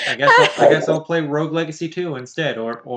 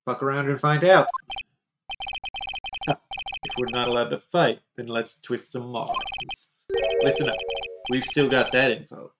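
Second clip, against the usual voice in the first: sly scheming gangster; gruff tough guy; 5 semitones lower than usual. Acted.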